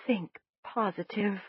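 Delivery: mumbling through a mouthful of food; words round a bite of cornbread, mouth full. A narrator's reading. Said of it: "I mumbled around a mouthful".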